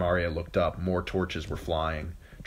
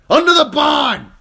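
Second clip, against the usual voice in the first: high, sustained urgent yell; screamed; 14 dB louder than usual. A narrator's reading. Yoren telling Arya the way out, screaming. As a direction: scream the order over the fighting. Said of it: "he screamed".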